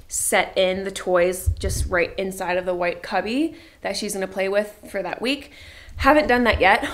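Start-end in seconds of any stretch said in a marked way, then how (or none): 6.0-6.8 puffing between words, winded; out of breath. Real, not acted. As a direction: talk while still catching your breath. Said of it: "Why am I out of breath".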